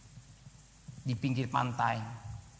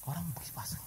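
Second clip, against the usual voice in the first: hushed whisper; 5 semitones higher, 8 dB quieter, much faster than usual. Acted. Preacher whispering to the congregation. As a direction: breathe it out unvoiced.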